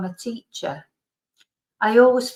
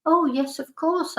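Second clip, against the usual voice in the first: higher pitch, with a rise on course; chirpy over-eager of course, much higher; tipsy eager reply; 8 semitones higher than usual. Retold or imitated. Drunk teacher answering her former student, pitched up high.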